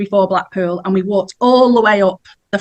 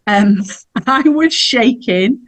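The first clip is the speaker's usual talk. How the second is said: laughing; 3 semitones higher, slower than usual. Real, not acted. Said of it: "I don't know why I'm laughing".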